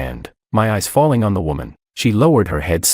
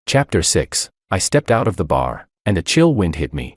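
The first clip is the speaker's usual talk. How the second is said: plain reading voice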